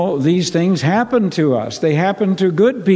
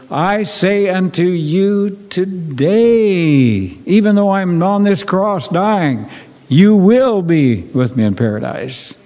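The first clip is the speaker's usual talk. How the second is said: slow, solemn, a little higher; solemn voice of Jesus; 4 semitones higher, slower than usual. Acted. Jesus promises the dying thief paradise, slow and solemn. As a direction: speak the promise gently and gravely as Jesus.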